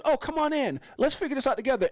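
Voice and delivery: high, sugary mock invitation; mocking the SEC's fake welcome. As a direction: imitate a false friendly host. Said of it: "the S E C did the same thing".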